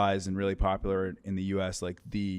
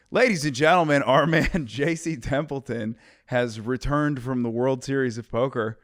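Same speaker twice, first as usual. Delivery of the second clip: announcer voice; 4 semitones higher, 6 dB louder than usual. Acted. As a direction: introduce him like a ring announcer. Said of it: "so let's go it again".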